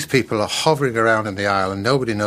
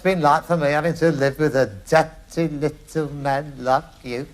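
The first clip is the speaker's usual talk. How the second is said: higher, slowing to a sneer; exasperated son; 4 semitones higher than usual. Acted. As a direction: spit out the insult. Sketch scene, Steptoe-style row.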